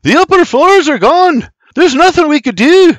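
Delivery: high, loud desperate yell; full-voice, urgent insistence; shouting. Acted. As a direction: shout the bad news over a blaze. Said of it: "looks back at them and shouts".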